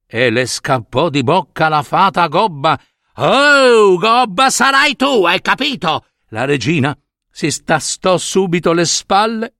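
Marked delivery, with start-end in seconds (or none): 3.2-6.1 high-pitched outburst, starting loud; offended fairy's scolding cry; indignant retort. Acted. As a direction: hurl the insult back as a curse. Insulted fairy curses the queen.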